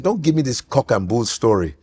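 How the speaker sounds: lightly voiced dismissive father, pitched low; imitated father. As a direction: say it as a scolding Dad, low. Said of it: "he's like".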